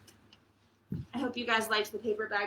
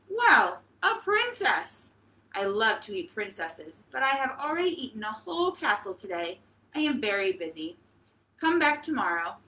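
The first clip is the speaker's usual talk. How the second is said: a hint of a pompous dragon, a touch faster. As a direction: play the boastful, busy dragon brushing her off. Dragon voiced in read-aloud story.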